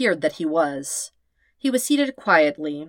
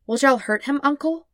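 high, pleading worried question; beseeching; 9 semitones higher than usual. Acted. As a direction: beg for reassurance. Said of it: "He glanced at Katara beseechingly".

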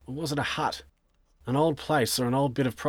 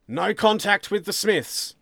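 loud, high, slow question; pointed interrogation; 10 semitones higher, 6 dB louder than usual. Acted. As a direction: press him with open doubt. Sergeant presses suspect.

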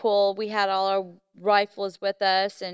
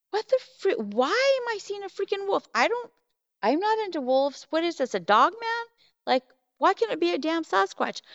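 much higher, exasperated disbelief at a wolf; incredulous outburst; 8 semitones higher than usual. Retold or imitated. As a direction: rant at herself in baffled disbelief. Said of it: "I'm like".

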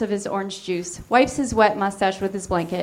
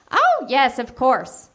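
high, sing-song sweetly promising voice; hammed-up high coaxing Lucy; scheming Lucy; 5 semitones higher, slower than usual. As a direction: lure him in, drawn out sweet. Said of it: "promises Lucy".

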